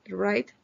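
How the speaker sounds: write said with the W silent, starting on R. Shown as a demonstration. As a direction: begin write on the R sound, no W. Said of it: "no se pronuncia". (write con la W muda, empezando en R)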